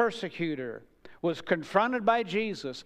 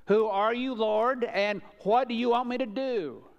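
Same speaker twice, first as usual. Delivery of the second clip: both questions raised higher and louder; proclaiming; 6 semitones higher, 5 dB louder than usual. Acted. Preacher proclaiming the two questions loudly to the congregation. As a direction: ring them out to the church.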